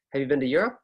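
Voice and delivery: "Have you been to Europe?" lifted on "Europe"; upward intonation. Shown as a demonstration. Teacher wanting you to participate, rising intonation. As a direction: raise "Europe" to invite an answer. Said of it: "questions are upward intonation".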